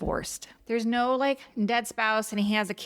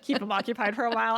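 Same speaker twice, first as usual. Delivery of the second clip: 1 laughing; much faster than usual. Retold or imitated. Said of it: "he's like".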